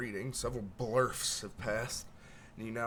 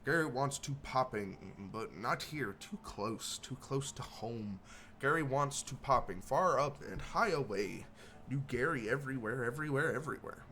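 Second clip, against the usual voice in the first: rambling goblin. Acted. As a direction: babble it like a strange little goblin dreaming of travel. Gary reacts to assassination plan.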